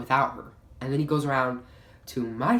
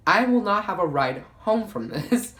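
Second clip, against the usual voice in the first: higher, louder, slower alarm; panicked; 8 semitones higher, 5 dB louder than usual. Real, not acted. Teen with parents away realising she is stranded, slow high panic. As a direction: spell out the disaster in rising panic. Panicking about getting home.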